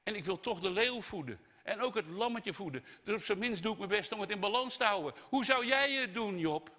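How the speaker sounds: high, pleading insistence rising to a loud challenge; God challenging Job. Acted. God defending creation to Job, exasperated. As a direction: build to the question and fling it at Job. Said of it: "zegt God".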